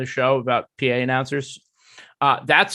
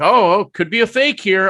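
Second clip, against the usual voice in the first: higher, louder mock announcer; 6 semitones higher, 5 dB louder than usual. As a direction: imitate an announcer butting into the play. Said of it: "the P A announcer was like".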